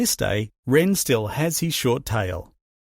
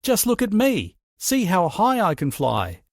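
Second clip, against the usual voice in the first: much higher, proud shouting boast; shouted boast; 6 semitones higher than usual. A narrator's reading. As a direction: crow it down from way up high. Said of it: "and he shouted".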